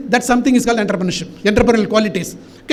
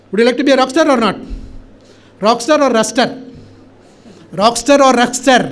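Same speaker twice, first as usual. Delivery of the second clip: raised voice, rousing the crowd for an answer; shouting to audience. Real, not acted. Speaker asking students if they will be rock stars, shouting. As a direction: call it out, leaving gaps for the reply. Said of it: "So far I am shouting".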